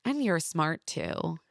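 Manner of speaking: mildly patronizing, drawn-out quote; slow it down as a backhanded compliment; understated imitation of condescension; condescending. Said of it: "condescendingly adds to Tara".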